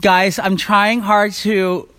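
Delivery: slight lisp from aligners; talking around new aligners. Real, not acted. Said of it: "not talk funny, but I am".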